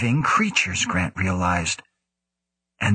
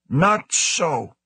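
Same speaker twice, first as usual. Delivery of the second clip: sharp raised retort; snapping; 8 semitones higher than usual. A narrator's reading. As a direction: snap it back high. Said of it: "the director snapped".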